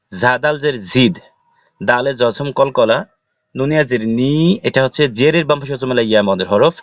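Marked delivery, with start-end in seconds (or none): 4.2-4.3 নি with its i held one beat longer; drawn-out vowel. Shown as a demonstration. Teacher showing the madd letter, lengthened vowel. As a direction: stretch the vowel of নি. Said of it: "এক লিপ টেনে পড়তে হবে".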